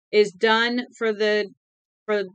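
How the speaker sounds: loud, relentless proclaiming; screaming relentlessly. Acted. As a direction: keep shouting the decree. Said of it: "Winky screamed relentlessly".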